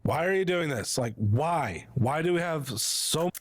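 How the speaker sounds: demonstrated argument tone. Shown as a demonstration.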